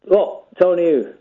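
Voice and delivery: funny voice. Pretend. Caller pretending not to know Tony, funny voice. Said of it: "calling in now doing a funny voice".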